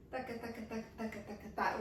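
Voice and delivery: soft, even run of "taka"; rhythmic taka syllables. Shown as a demonstration. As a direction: tick out a light percussive taka rhythm. Vocalizing the waterfall dance move.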